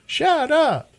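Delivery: high disbelieving shut up; incredulous shut up. Retold or imitated. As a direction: gasp it out in disbelief. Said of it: "It means, you gotta be kidding me".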